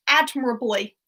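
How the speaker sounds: "admirably" said carefully, stress on AD; careful "admirably" after a stumble; careful pronunciation. Shown as a demonstration. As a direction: spell out "admirably" syllable by syllable. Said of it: "that's a hard word to say".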